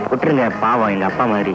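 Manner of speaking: very low, even-toned plea; subdued plea. Acted. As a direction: plead low for someone to be spared. Pleads with gang to spare him.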